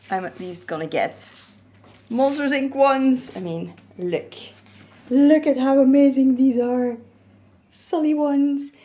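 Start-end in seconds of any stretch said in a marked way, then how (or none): 5.1-8.7 excited showing off. Real, not acted. Showing off Monsters Inc Crocs.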